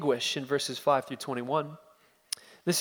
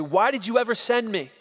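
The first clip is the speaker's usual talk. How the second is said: a hint of anguished self-doubt; 7 semitones higher, 4 dB louder than usual. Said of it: "self-doubt".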